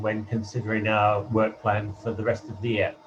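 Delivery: hollow, echoey line like a wind tunnel; as if speaking inside a tunnel; echoing tunnel. Real, not acted. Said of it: "you're still in a wind tunnel".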